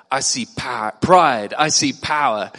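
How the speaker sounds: bold, loud I see power chant; Yul Brennan pep talk. Retold or imitated. Tough guy psyching up Junior at the mirror, loud and bold. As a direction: pump up a timid friend, loud and proud. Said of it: "And Yul Brennan says".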